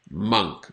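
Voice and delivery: monk with a short uh vowel; correct pronunciation. Shown as a demonstration. Teacher repeating monk for students. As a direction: repeat monk clearly for learners. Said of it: "But it is".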